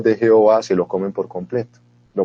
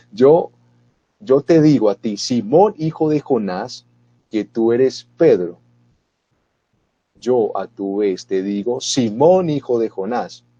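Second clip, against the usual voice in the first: solemn Jesus; slower than usual. Acted. Jesus answering Pedro solemnly.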